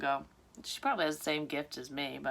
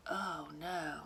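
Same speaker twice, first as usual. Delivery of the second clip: ordinary delivery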